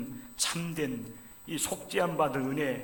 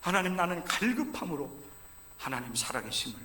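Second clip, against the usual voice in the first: pleading prayer cry; 5 semitones higher, 5 dB louder than usual. Acted. Voicing David's desperate prayer.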